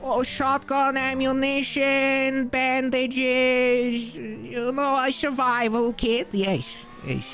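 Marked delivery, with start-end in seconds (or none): 0.0-6.3 higher, reedy put-on voice of James; imitating James. Pretending to be James on the phone to Colin, put-on voice. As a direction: fake being James for Colin. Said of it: "I can pretend to be James".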